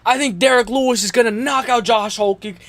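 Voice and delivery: hiccups breaking the words; hiccuping. Real, not acted. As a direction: talk through hiccups. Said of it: "I'm even coughing and hiccuping".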